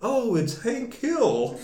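high, slow, drawn-out call from afar; a slow, high call of sudden recognition; mock yell. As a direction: shout it across the room at someone leaving. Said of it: "hear her yell".

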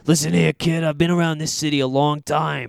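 gritty noir Pikachu. Retold or imitated. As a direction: talk tough like a hard-boiled gumshoe. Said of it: "like, gravelly and gritty".

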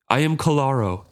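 a proud, bellowed declaration; bellowing. Acted. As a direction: bellow the name out like a proud beast. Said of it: "At his bellow".

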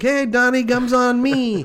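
high, loud, stretched-out greeting; hearty hailing. Acted. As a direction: call out a generous welcome, high and loud. Shopkeeper hails returning hometown man.

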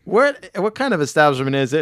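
high, put-on insurance man voice. Insurance man quizzing Homer after the crash, imitated high voice. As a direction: imitate a questioning official up high. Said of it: "this insurance man comes and goes".

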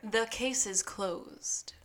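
slow, hushed mock-dramatic whisper; drawn-out whispered punchline. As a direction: whisper the verdict slowly. Finishing the detective's quoted line.

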